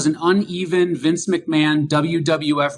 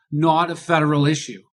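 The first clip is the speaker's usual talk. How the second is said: Boston accent. Shown as a demonstration. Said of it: "in my most relevant Boston accent ever".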